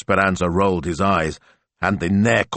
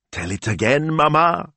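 put-on high, excited plea from a child; delighted high little-girl request; eager child; 10 semitones higher than usual. A narrator's reading. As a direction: beg for more with a rising lilt. Child asking eagerly for story.

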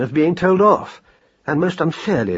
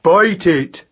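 put-on higher, excited young creature voice; eager young mouse; 5 semitones higher, 4 dB louder than usual. A narrator's reading. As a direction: blurt it like a greedy youngster.

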